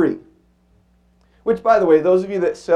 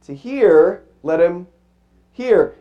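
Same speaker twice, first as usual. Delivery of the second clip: preached saying; 3 semitones higher, slower than usual. Retold or imitated. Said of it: "he'd say".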